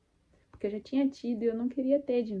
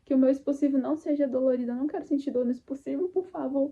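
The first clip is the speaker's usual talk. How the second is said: urgent, slightly raised prayer for mercy; pleading prayer; 4 semitones higher, 5 dB louder than usual. Retold or imitated. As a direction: beg God to spare her the pain. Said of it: "só orei e falei assim".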